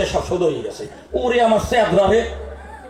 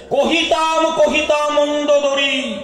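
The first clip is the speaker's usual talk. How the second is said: Ravana's confession; 5 semitones higher, slower than usual. Acted. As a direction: declaim it grandly, drawn out. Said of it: "Ravan বলেছিল". (রাবণের ধীর উচ্চ ঘোষণা)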